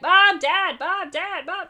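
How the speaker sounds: calling out high and loud; shouting. Retold or imitated. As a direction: call out for mom and dad. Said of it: "Dory is shouting a lot".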